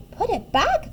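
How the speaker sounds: high, rising disbelief; surprised storybook animals; incredulous question. A narrator's reading. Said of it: "they asked her".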